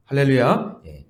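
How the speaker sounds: ordinary delivery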